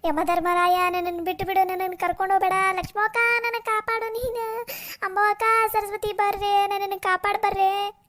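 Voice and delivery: long, wailed pleas on an even note; crying out for help. Acted. Sleeper begs Yama and neighbours from her nightmare, wailing. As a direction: wail out each plea to be saved. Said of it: "ಈಕಿ ಎದಕ್ಕೆ ಹಿಂಗೆ ಒದರಾಡ ಕುಂತಾಳ".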